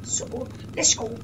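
slow, loud quacky duck voice. Pretend. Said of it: "that's my duck voice".

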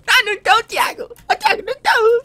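a high squeal of disbelief; can't believe what he's seeing; indignant high cry; shocked protest. Real, not acted. Protesting to a teammate mid-fight.

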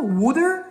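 "Water" as "wooder", questioning; alternative pronunciation. Shown as a demonstration. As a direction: try "Water" with an oo vowel and a d, rising. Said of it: "how do you want me to pronounce it?".

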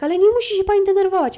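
high, loud, quick mocking voice of the officer; mock soothing officer. Officer telling an upset caller not to get upset, in a high mocking voice. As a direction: mimic him talking down to her. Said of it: "pan siedzi i tak".

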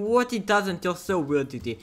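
mock commenter. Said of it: "before you start commenting".

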